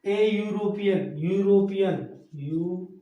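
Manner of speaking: यूरोपियन drawn out, opening on a clear "yu"; pronunciation demo. Shown as a demonstration. Teacher shows students the opening sound, यूरोपियन drawn out from "yu". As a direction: stretch यूरोपियन, then isolate its opening यू. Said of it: "लेकिन उच्चारण कैसा है".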